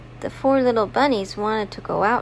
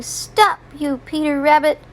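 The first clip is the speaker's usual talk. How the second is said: higher-pitched, mild storybook scolding; mock yelling; 4 semitones higher than usual. Mister McGregor chasing Peter Rabbit out, mild mock yell. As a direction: yell it lightly, as for small children. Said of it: "he was yelling at him".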